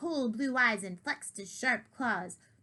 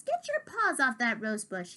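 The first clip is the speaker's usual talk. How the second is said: snapping; 3 semitones higher than usual. Acted. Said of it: "he snapped at another".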